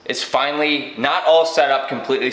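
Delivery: talking with retainers in; slightly lisped retainer speech. Real, not acted. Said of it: "Sorry, I sound like this. I got my retainers in".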